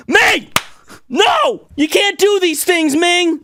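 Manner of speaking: high, loud, drawn-out telling-off; mock scolding. Scolding Ming for her antics, high mock outrage. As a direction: scold her like a misbehaving pet.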